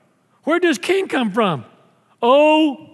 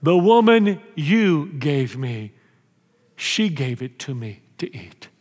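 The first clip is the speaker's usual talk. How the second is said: sulky blame; 6 semitones lower, slower than usual. Acted. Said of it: "First person he blames is God".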